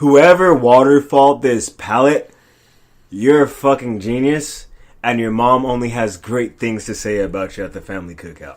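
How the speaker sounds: loud, mock snide, sarcastic tone. Retelling a radio call to a coworker who left a messy pallet: imitating own sarcastic radio call. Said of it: "the way I said it".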